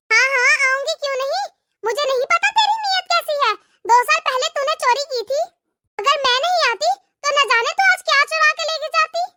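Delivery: jab at her with mock sweetness; sarcastic taunt. Bhabhi accuses Nadia of theft. (ताने मारती भाभी, थोड़ी ऊँची आवाज़ में)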